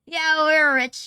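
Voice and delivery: drawn-out mock brag.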